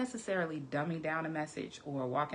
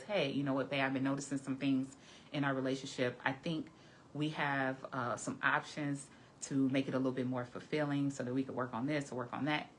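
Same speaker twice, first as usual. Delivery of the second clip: tactful, gentle; 2 semitones lower than usual. Shown as a demonstration. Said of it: "that's a whole different way of saying it".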